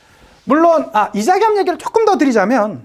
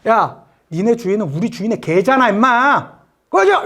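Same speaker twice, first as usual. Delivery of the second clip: mocking servant's retort; 2 semitones lower than usual. Rival servant snaps back.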